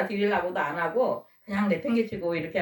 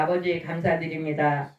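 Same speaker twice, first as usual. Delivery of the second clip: lower, steady prayer voice; closing prayer spoken in a lowered voice; 3 semitones lower than usual. Acted. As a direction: pray for the congregation earnestly.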